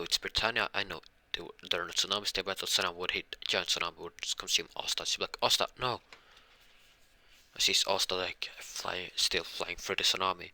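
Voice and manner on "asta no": loud, raised cry of the name; calling out. Acted. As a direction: call after her, pitch up and louder. Calling out to Asta.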